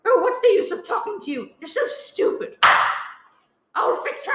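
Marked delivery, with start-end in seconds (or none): 1.6-4.3 bitter whisper. Acted. Muttering after hanging up.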